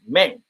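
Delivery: "Mang" dropped low, as the accented spelling. Shown as a demonstration. Explaining the band name with the accent, accented. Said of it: "with an accent, it'll sound like".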